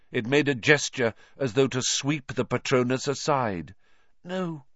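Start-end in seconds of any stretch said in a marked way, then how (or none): 4.2-4.7 high, desperate refusal; horrified gasp. A narrator's reading. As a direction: gasp it, then cry out in protest. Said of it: "Harry gasped".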